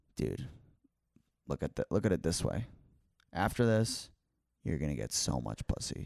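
whisper. Retelling what a cop whispered in his ear in an elevator: whisper. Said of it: "The cop whispers in my ear".

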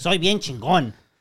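loud, high-pitched Spanish with Mexican accent. Showing another speaker how to say the line: Mexican Spanish accent. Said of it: "You have to say it in Mexican".

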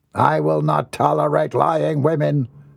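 commanding voice climbing in pitch with authority. A man warns the woman who says she loves him, voice rising with authority. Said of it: "His baritone voice rose authoritatively".

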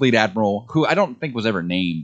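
ordinary delivery

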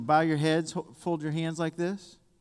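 normal talking voice

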